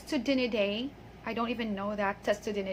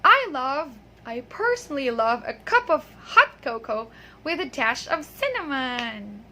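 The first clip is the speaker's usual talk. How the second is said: measured example sentence for repeating; model reading. Shown as a demonstration. Teacher reads first for students to repeat, model reading. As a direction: read it out clearly, drawing out the ending. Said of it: "I'll do it first and you repeat after me".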